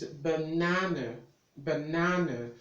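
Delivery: "banana" stressed on the middle syllable, ba-NA-na; stress shown. Shown as a demonstration. Tutor showing where the stress is, stressed pronunciation. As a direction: model "banana" leaning on NA. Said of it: "that's where the stress is".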